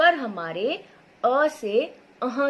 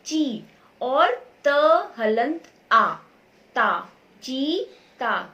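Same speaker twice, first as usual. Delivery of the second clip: slow sound breakdown; 5 dB louder, much slower than usual. Shown as a demonstration. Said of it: "हम इसको और भी तोड़ सकते हैं".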